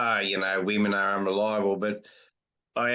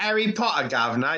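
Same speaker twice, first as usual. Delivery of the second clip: higher-pitched mock English, laughing; mock English accent; 3 semitones higher than usual. Australian guest mocking host's too-English attempt, mock English accent. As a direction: tease with a hammed-up English accent. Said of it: "Nah, it's a bit English".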